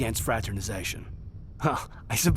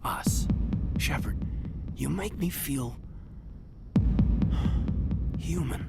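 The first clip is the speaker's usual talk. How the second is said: hushed, breathy confession; tender whisper. Acted. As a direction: whisper it close, barely voiced. Intimate confession to Shepard.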